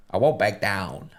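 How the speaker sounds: lightly voiced Florida rock singer; slow, mock singer impression; a rock singer. Shown as a demonstration. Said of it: "I do Tom Petty. He's from Florida".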